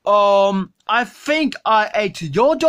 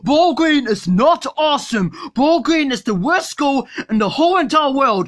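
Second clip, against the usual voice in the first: put-on shouting kid voice; 4 semitones higher than usual. Kid argues with dad.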